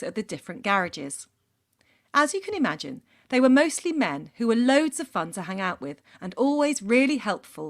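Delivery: measured storytelling read-aloud; deliberate narration with emphatic phrasing; letter read aloud. A narrator's reading. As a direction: read it out like a personal confession story. Reads a listener's letter aloud.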